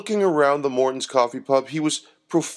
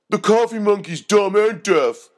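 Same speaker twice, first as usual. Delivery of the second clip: laughing; 10 semitones higher, 5 dB louder than usual. A narrator's reading. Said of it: "laughed the second thug".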